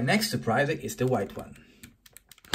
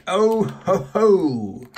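surprised exclaim; 3 semitones higher, 6 dB louder, much slower than usual. Real, not acted. Surprise egg opened, exclaiming.

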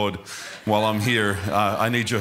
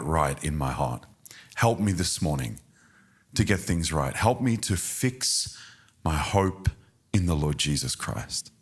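soft prayer; 3 semitones lower than usual. Shown as a demonstration. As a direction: pray it quietly and humbly. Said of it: "close your eyes and just say".

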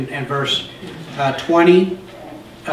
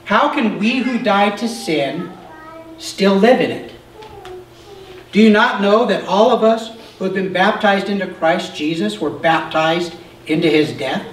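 raised, earnest reading voice; scripture reading. Acted. Pastor reading Romans six aloud to the class, earnest. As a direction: proclaim the verses to the listeners. Reads long scripture passage.

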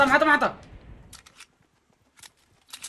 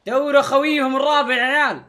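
loud, raised team call; calling out orders; 4 semitones higher, 7 dB louder than usual. Real, not acted. Player sends squad after fourth enemy, loud call.

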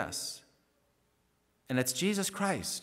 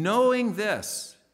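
"Knowing" slow and firm, lifted and loud; stress on knowing; 5 semitones higher, 4 dB louder, much slower than usual. Real, not acted. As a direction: drag out "Knowing this" with weight. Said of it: "no, not, not hoping, wishing, or suspecting, know this".

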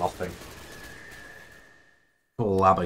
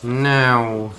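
urgent shout; 4 semitones higher, 6 dB louder than usual. Real, not acted. Urging teammates mid-firefight.

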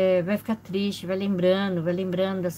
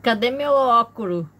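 mother's fussy question; 4 semitones higher, 6 dB louder than usual. Retold or imitated. Mother voiced asking for glasses.

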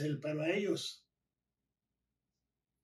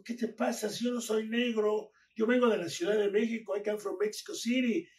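higher-pitched retold protest; indignant retort; 5 semitones higher, 4 dB louder than usual. Wrestler protesting to the lifeguard on the beach, indignant. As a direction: push back, standing up for yourself.

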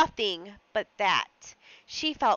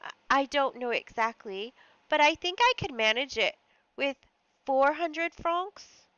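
hesitant; 4 semitones higher than usual. Acted. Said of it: "replied with hesitation".

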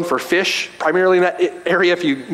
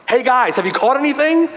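mild sarcasm; 6 semitones higher than usual. Retold or imitated. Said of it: "there's a bit of sarcasm in there".

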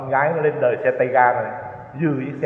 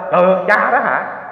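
retold shout; 4 semitones higher, 4 dB louder, much slower than usual. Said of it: "nó la lên".

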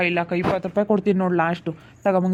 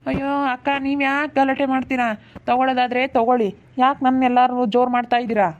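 slightly raised, put-upon pleading; exasperated protest; 3 semitones higher than usual. Acted. Vegetable seller to quarrelling customers, exasperated protest. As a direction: protest at being picked on.

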